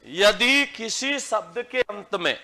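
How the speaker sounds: slow, spaced words for students to copy; slow dictation. Shown as a demonstration. Teacher dictating a rule to the class, slow and clear. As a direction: dictate each word slowly. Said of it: "dictation, slow and spaced".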